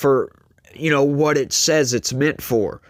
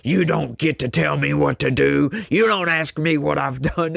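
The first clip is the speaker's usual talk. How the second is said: mock seething employee; 3 semitones higher than usual. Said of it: "just, ah, seething".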